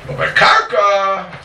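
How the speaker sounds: slow, loud and drawn out; spelled out slowly for the class. Shown as a demonstration. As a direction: lay each word down slowly.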